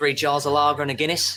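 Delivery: put-on Australian accent. Ordering drinks again from a bar worker, fake Australian accent. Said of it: "Is he speaking in an Australian accent?".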